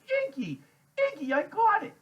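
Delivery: very high, loud shriek of recognition; excited realization. A narrator's reading. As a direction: cry out as the name comes back. Loretta jumps up, remembers.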